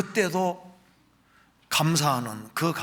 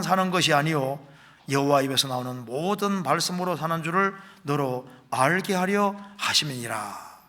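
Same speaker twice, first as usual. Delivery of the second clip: scripture reading; 3 dB louder than usual. Acted. Continues rereading the passage. (또박또박 힘주어 성경 봉독)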